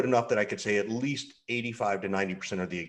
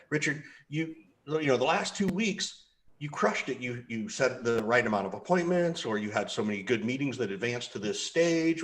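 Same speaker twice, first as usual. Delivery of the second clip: upbeat praise to a rep; 3 semitones higher than usual. Retold or imitated. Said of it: "I'm gonna pick on Richard".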